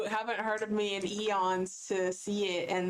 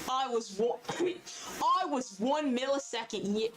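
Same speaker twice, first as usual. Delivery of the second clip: hammed-up fan; 4 semitones higher than usual. Role-playing an excited viewer.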